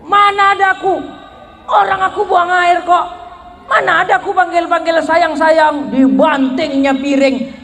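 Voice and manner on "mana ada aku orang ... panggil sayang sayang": angry denial. Retold or imitated. Husband caught on the phone angrily denies to his wife. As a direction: bristle and deny everything, indignant.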